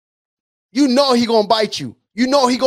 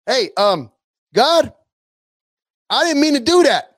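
pleading believer; 2 semitones higher than usual. Retold or imitated. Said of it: "You're gonna say".

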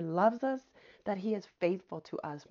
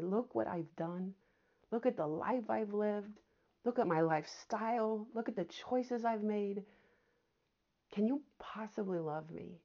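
doubting prayer; 4 dB quieter than usual. Pretend. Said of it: "you have that question in your heart".

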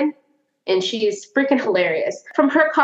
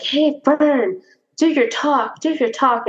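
lightly voiced higher-pitched goading; mock eager pleading, higher voice; pestering friends; 6 semitones higher, slower than usual. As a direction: imitate friends egging someone on, pitched up. Acting English friends pestering the comedian.

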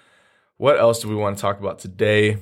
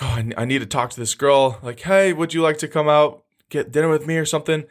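needy; 5 semitones higher than usual. Acted. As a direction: voice pitched up, needy. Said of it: "your voice goes up when you're needy".

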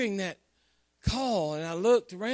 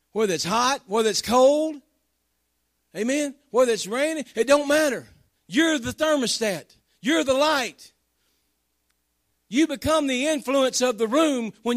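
1 preaching build; 3 semitones higher, 4 dB louder than usual. Acted.

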